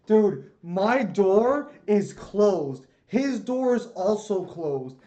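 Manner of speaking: drawn-out exasperated explaining. Real, not acted. Exasperated at complaint.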